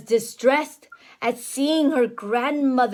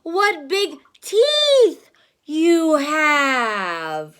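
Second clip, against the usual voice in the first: amazed; much slower than usual. Acted. Red Riding Hood wondering at granny, very slow. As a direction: marvel at the eyes.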